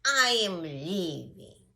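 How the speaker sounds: loud, slow announcement of exit; huffy storybook owl; offended owl. Acted. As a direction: declare it in a huff, drawing it out.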